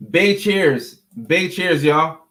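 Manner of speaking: bright, hearty toast to the whole audience; cheerful toast call. Real, not acted. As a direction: raise a glass and call it out to the chat. Calling out a toast to chat.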